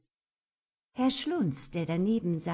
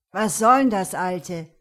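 indignant shout; 10 dB louder than usual. Acted. Goth outraged.

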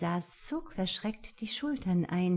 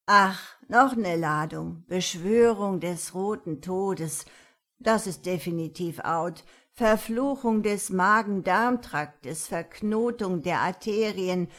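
put-on fussy old woman; 5 dB louder than usual. Granny reads spell list.

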